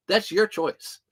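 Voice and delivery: firm mock-stern telling-off; teasing. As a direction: tell them it's on them, half joking. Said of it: "Like I told the kids".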